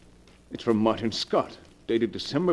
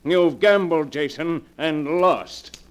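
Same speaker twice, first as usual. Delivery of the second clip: louder, gloating threat; menacing verdict; 6 dB louder than usual. Acted. Gerald condemning Jason at gunpoint, loud and menacing. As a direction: pronounce his doom with the gun drawn.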